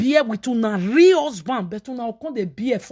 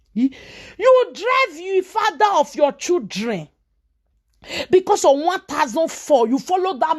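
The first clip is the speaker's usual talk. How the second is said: scolding shout; 5 semitones higher than usual. Real, not acted. Scolding the woman who drove off her husband, shouting.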